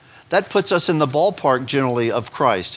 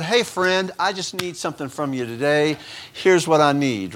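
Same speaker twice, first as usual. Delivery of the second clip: casual buddy prayer. Pretend. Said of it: "is that the attitude you take".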